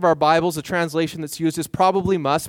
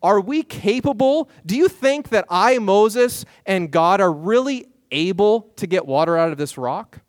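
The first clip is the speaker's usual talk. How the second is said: incredulous, raised pitch on "Are we capable?"; doubtful capability question; 3 semitones higher, 3 dB louder than usual. Retold or imitated. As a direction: Moses asking if they are even able. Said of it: "might be saying".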